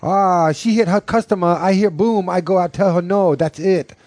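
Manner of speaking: high-pitched mock Asian accent. Rereads quote as mock Asian woman.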